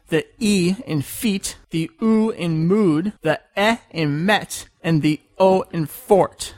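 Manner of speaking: slow, measured E in feet, U in mood, E in met, O in fort; vowel demonstration. Shown as a demonstration. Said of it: "These are pronounced approximately like".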